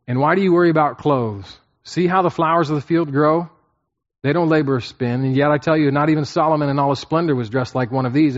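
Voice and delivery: reading the verses aloud with lift; scripture reading. Acted. Preacher reading scripture to the congregation, lifted. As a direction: read the passage out to the congregation.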